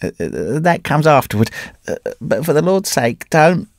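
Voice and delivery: put-on high, strained, half-mad old wanderer; a wrecked man clutching at his story; ragged Carnehan. A narrator's reading. Broken wanderer telling his old friend the tale, high and strained. Carnehan begs not to look.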